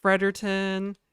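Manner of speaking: "Fredericton" reduced to "Fredderton"; "Fredericton" squeezed to Fred-er-tn; not fully pronounced. Shown as a demonstration. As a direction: drop the "ick" from "Fredericton". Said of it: "do not pronounce things in their entirety".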